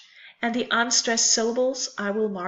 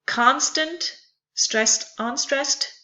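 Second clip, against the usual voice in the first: "Constant" stressed on CON, then name the two beats; measured demonstration of "Constant", first syllable strong; stressed then unstressed; 3 semitones higher, slower than usual. Shown as a demonstration. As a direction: teach "Constant" as strong-weak, with rising list tune. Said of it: "one stressed and one unstressed".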